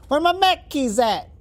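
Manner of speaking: high, slow Brooklyn yell; hammy Brooklyn whine about keys; Brooklyn accent. Acted. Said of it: "That's my Brooklyn accent".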